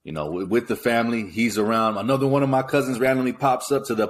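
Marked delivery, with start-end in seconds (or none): none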